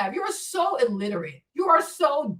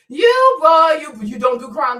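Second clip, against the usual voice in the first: loud scolding; 3 semitones higher, 8 dB louder than usual. Real, not acted. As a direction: shout it down at him, incredulous. Scolding the commenter loudly.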